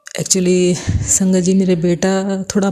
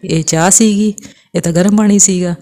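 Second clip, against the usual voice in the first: son's Punjabi complaint; 4 dB louder than usual. Retold or imitated. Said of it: "Punjabi family है".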